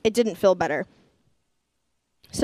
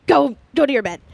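raised, higher, louder scolding order; mock yell; 5 semitones higher, 5 dB louder than usual. Nanny fed up with the five-year-old, loud mock yelling. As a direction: send a child off in an acted yell. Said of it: "keep yelling at you".

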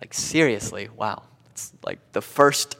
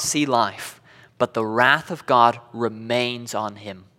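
slow, deliberate verse reading; solemn scripture reading; slower than usual. Acted. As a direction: read it out slowly with weighty pauses.

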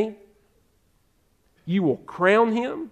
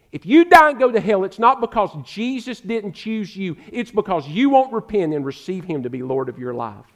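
fiery preaching; 4 dB louder than usual. Real, not acted. Preacher warning his listeners in a loud, fiery voice. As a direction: thunder the warning at them.

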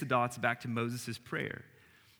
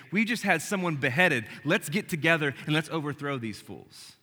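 louder, higher mock crowd rallying cry; rallying shout; 3 semitones higher, 4 dB louder than usual. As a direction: fire up the crowd to overthrow Rome. Crowd urging a revolt.

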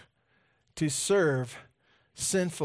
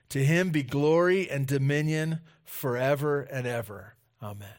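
scripture reading. Acted. Reads scripture aloud.

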